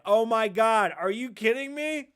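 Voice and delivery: mock panic. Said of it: "the girl was like".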